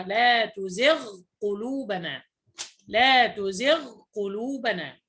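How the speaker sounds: "لا تزغ قلوبنا" slowly, ghain sounded before qaf; clear ghain. Shown as a demonstration. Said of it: "إنما أظهرها".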